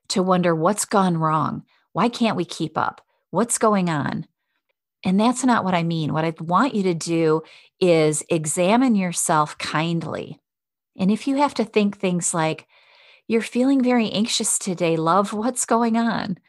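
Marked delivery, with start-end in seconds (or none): 1.9-4.3 impatient, critical self-talk; harsh self-questioning. Shown as a demonstration. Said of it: "to beat ourselves up". 13.3-16.4 kind and loving. Shown as a demonstration. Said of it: "in a very kind and loving way".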